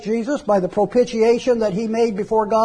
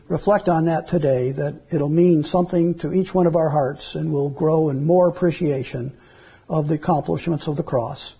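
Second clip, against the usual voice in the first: hushed, lower prayer voice; 3 semitones lower than usual. Acted. Pastor leads closing prayer.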